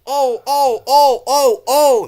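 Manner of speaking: high shrieking squeals; trucks screaming. Acted. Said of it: "screamed the Chocks".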